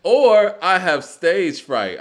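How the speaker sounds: mock the lame excuse, drawn out; slow, loud, high mock whine of a rapper's stage-fright excuse. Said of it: "Andre pulls that too".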